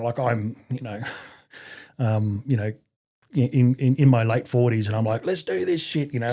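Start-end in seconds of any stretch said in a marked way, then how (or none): 5.2-6.1 higher-pitched, eager self-quote; mock gung-ho. Veteran in late forties keeping up with young soldiers, gung-ho.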